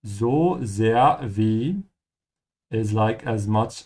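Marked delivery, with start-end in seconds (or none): 0.0-1.8 slow clear demo. Shown as a demonstration. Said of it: "as in how much".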